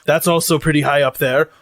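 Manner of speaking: deliberate, lightly pompous character voice; formal robot cook. Acted. Lucy tells crew the crimes of dishonor, mannered formal voice. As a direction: begin a solemn catalogue, weighing each item.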